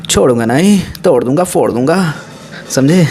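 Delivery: a light imitation of a Sunny Deol threat; mock-angry filmy threat, only lightly voiced; Sunny Deol dialogue. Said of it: "पर सन्नी पाजी नहीं मुड़ते हैं". (सनी देओल की हल्की नकल, नकली गुस्से में)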